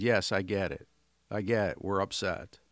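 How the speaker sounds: loud confirming handshake; firm matching acknowledgement. Shown as a demonstration. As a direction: meet them at their level with a firm yes. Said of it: "matching in tonality".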